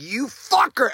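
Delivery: mock rage at a clogged toilet; freaking-out curse. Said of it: "I'm freaking the fuck out".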